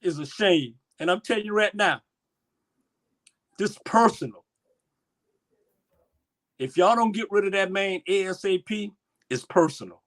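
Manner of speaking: real upset, pausing between charges; emotional. Real, not acted. Warning those who mistreat these folks, emotional. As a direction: press the point with feeling. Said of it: "let me get my emotional back together".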